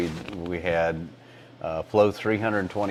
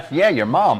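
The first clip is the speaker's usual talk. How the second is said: higher, words riding on laughter; laughing; 8 semitones higher, 3 dB louder than usual. Real, not acted. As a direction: tease through a laugh. Joke about teacher being mom.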